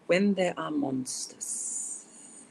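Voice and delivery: slow, drawn-out poetry title; poem title reading. Acted. Poet opens her monster poem for listeners, slow title announcement. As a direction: stretch the title out solemnly for a reading.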